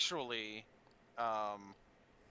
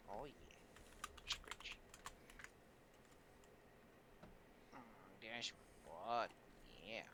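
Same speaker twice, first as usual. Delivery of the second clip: cooing to pet. Real, not acted. Talking fondly to the cat.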